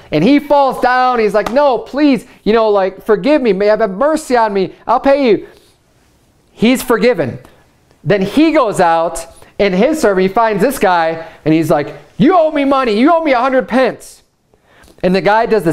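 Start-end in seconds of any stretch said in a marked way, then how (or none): 1.5-5.5 high, pleading cry for mercy; begging servant. Retold or imitated. Fallen servant begging the king, high and pleading. 12.2-14.2 high, pushy demand for the money; demanding creditor. Retold or imitated. Servant demanding repayment from his fellow, pushy and high.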